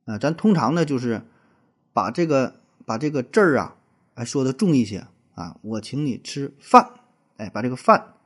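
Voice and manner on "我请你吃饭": slow, with weight on 饭; stress on 饭. Shown as a demonstration. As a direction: lean on the word 饭. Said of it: "把这个饭咬的重一点儿".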